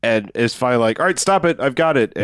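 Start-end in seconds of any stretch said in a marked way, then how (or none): 1.0-2.1 sudden shout. Acted. Acted quote of movie hero.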